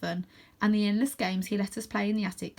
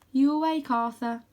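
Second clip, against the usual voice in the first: higher-pitched, tentative question; lifted, questioning night-time call; 5 semitones higher, 4 dB louder than usual. A narrator's reading. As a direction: check if a friend is awake. Rose calls across the dark.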